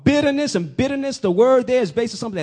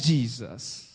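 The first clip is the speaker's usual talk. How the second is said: low hushed drop; 10 semitones lower, 7 dB quieter than usual. Real, not acted. Preacher drops voice for Jesus.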